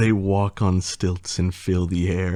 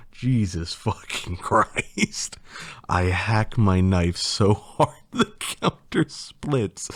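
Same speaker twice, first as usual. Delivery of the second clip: laughing. Real, not acted. Reader cracks up over the story.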